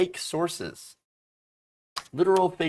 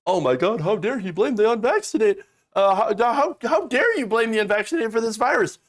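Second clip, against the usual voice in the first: high, loud mocking whine of outrage; mock raging conservative; 6 semitones higher, 4 dB louder than usual. Streamer mocking raging conservatives, high indignant whine. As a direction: parody the angry anti-vaxxer, up and loud. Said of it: "conservatives, of course, have been raging".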